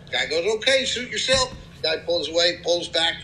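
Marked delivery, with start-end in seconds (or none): 0.6-1.5 high-pitched voice for the friendly country neighbor. Acted. Guy in pickup greeting new neighbor, high-pitched friendly voice.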